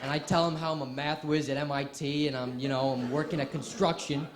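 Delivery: lightly put-on Boston accent; Will from Good Will Hunting. Student bluffing the college interviewer, Boston accent. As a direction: brag in a casual Boston accent. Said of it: "I become Will from Good Will Hunting".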